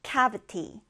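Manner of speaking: cavity with the weight on CAV, the rest falling; cavity stressed on CAV; stress on first syllable. Shown as a demonstration. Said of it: "첫 음절에 강세를 두고요".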